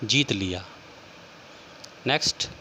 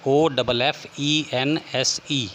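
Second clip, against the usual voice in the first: letters spaced out slowly; teacher spelling a word slowly for students; slower than usual. Shown as a demonstration. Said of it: "हो जाएगा S".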